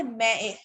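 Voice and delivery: मैं ए said as "mé-e", no vowel before the m; wrong letter names. Shown as a demonstration. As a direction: start मैं ए directly on the m. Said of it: "हम ये तो नहीं बोलते".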